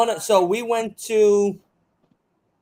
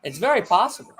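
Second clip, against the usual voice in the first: sarcastic; faster than usual. Acted. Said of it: "He's being sarcastic".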